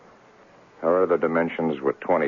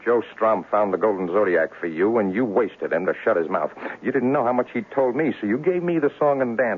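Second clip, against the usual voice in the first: accusing, rising anger; 4 semitones higher than usual. Acted. Detective accuses client of murder.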